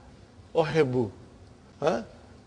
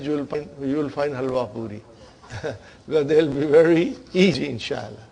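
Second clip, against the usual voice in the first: laughing; 3 semitones lower, faster than usual. Real, not acted. Joking the exercise is halwa puri.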